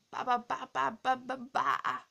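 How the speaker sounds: loud, rapid-fire string of byes; mock sign-off shout. Vlogger signing off to ugly freaks, loud and hammed-up. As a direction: belt out repeated goodbyes.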